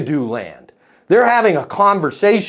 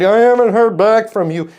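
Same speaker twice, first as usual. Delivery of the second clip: mock accusing; 5 semitones higher, 4 dB louder than usual. Mocking bad sales email.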